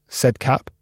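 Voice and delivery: ordinary delivery, nothing marked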